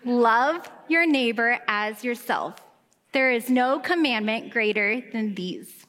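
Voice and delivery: slow unison reading of the verse; group scripture reading. Real, not acted. Pastor and congregation reading scripture, slow unison recitation. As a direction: read it together, measured and steady. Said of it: "I want us all to read it together".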